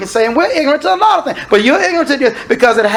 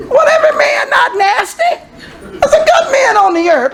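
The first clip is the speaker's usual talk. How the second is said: crying out; 13 semitones higher than usual. Real, not acted. Preacher protests at full force.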